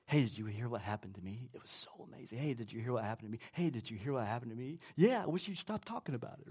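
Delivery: quick, hushed imitation of bragging about news; mock chatterbox. Friend gossiping to a friend, quick hushed mock chatter. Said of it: "You're like".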